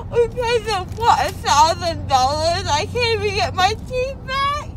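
after wisdom teeth. Real, not acted. Crying over teeth.

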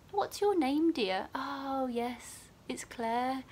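lightly voiced patient, lifting high at first. Patient recalling the student nurse's name, lightly imitated.

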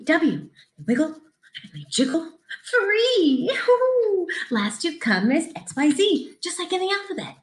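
lively, sing-song picture book reading; reading to children. Acted. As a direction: read it bright and bouncy for little kids.

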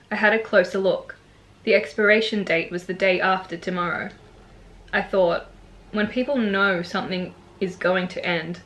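measured poetry reading with pauses between lines; understated, evenly paced recital of a poem. Acted. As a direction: read your own poem aloud, line by line. Reads own poem aloud.

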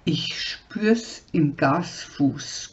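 Jürgen grumbling to Helga about the load; low slow grumble. Acted. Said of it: "knurrte Jürgen".

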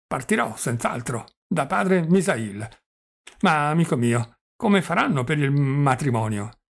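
put-on doddering old prince. Old prince voiced in reading.

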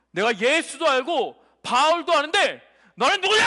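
measured demon voice building to a barked question; lightly voiced demon, erupting on the final question; demon's challenge. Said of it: "딱 이렇게 얘기한 거야".

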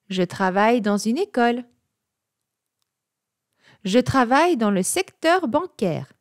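ordinary talk

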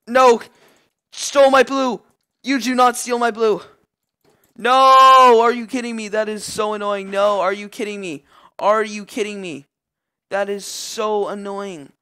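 high, loud angry shouting; real gamer rage; furious outrage. Real, not acted. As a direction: rage that your buff got stolen. Enemy steals his blue buff.

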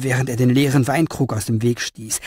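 usual speaking voice

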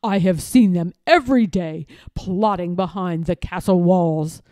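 loud, pompous villain's lie; feigned shock. A narrator's reading. Lord Droon blaming townsfolk before the king, feigned shock. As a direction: declaim false indignation, pressing each point. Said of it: "pretending to be greatly shocked".

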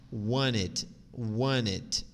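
"want it" as "wanit", each one set apart; linked without T. Shown as a demonstration. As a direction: repeat "want it" as one blended word, "wanit". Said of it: "ou tu pode falar want it". ("want it" sem o T, como "wanit")

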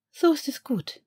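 a touch of gentle praise, pitched high. Acted. Narcissa praises the recovering boy, gentle voice. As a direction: soften it for the child. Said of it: "sagte sie sacht".

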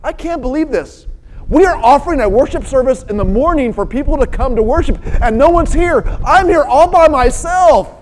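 mildly worked-up retelling of an angry grumble; mild retold anger. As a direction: act out a touch of exasperation. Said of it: "I started getting angry".

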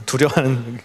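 ordinary delivery

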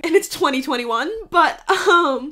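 a wry laugh at how late it is. Real, not acted. To her viewers, ribbing Hollywood about Asian films, laughing.

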